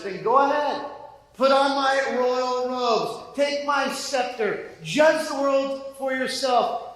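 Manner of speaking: a playful divine taunt that grows; sarcastic God. Pretend. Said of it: "a little bit of humor and not a little bit of sarcasm".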